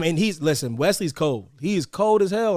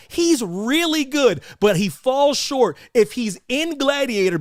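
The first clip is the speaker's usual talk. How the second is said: measured concession; 5 semitones higher, slower than usual. Retold or imitated. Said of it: "I go".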